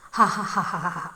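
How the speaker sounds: mock thunderous ha ha ha, fading at the end; a lightly voiced roaring laugh; booming laugh. Puneet laughing at his friend's robot trouble, a hammed-up guffaw. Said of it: "तो शहाणा गडगडाटी हसला".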